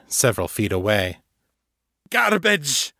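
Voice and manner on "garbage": high, sobbing rage cry; spat in rage. A narrator's reading. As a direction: spit it out, half sobbing. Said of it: "he spat, halfway between sobs and rage".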